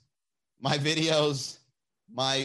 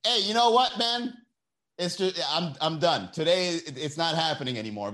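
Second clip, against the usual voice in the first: mock computer voice; 2 semitones higher than usual. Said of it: "the computer just says".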